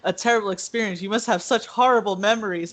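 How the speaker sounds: fast, fake-sympathetic Loki; mock sympathy. Loki toying with Valkyrie, fast mock sympathy. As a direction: rattle off the false pity. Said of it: "he's like".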